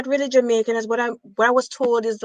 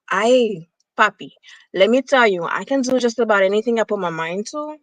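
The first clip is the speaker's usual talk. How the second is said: put-on a Latina accent, a bit louder and sassy; 3 dB louder than usual. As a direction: put on a playful Latina accent, like Rosie Perez. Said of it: "You sound like Rosie Perez".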